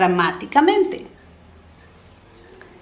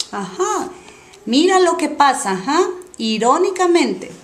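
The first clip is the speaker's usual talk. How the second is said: ironic aside; 4 semitones higher than usual. Shown as a demonstration. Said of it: "ironic example sentence".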